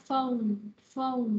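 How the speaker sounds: "phone" with gliding O closed by N; O plus final N. Shown as a demonstration. Teacher drills the word for class, clear final N. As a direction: finish each "phone" on a clear N. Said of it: "Âm O, sang thêm N".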